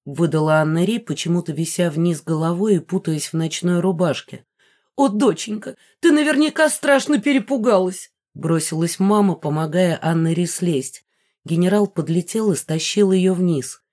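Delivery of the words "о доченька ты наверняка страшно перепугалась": much higher, cooing alarm; a mother fussing over her child; doting mother, gushing with worry. A narrator's reading. Mother fusses over daughter.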